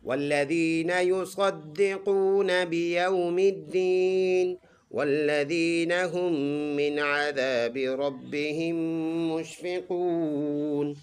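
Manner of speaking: slow melodic tajweed recitation; teacher models the full verse in recitation; Quran recitation. Shown as a demonstration. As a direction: chant the verse slowly. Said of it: "فل آیت ایسے پڑھیں گے".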